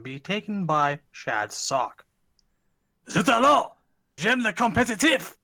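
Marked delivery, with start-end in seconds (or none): 3.1-5.3 hammed-up high French accent; over-the-top French exclamation. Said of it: "the impression needs a little work".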